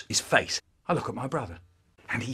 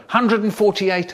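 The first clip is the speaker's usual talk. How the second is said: put-on higher, eager child's guess; 7 semitones higher, 4 dB louder than usual. Boy guessing raisins with May, eager and higher. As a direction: blurt the number like a keen kid. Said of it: "I'd say".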